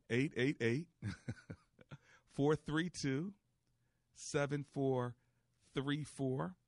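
digits spaced out with pauses between groups. Shown as a demonstration. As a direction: read the number out slowly, group by group. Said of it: "I'll try to say it slower".

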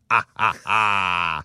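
slow, drawn-out "ah, ah, ah"; imitated child's noise. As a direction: mimic the boy in bed with stretched-out ahs. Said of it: "and he goes".

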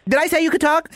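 high-pitched barking drill sergeant; Drill Sergeant Nacho Chavez. Acted. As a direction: bark orders like a drill instructor. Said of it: "this is Drill Sergeant Nacho Chavez".

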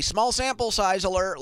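slow, high nerdy call-out; lightly voiced stats nerd; baseball nerd voice. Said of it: "what do the baseball nerds say".

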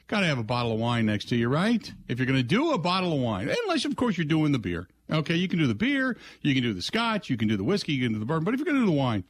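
upbeat live-read radio ad; chipper 1950s ad. Acted. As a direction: sell it like a cheerful pitchman. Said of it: "brought to you by our friends".

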